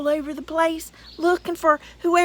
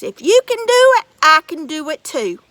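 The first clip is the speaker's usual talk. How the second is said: boasting giant; 9 dB louder than usual. Acted.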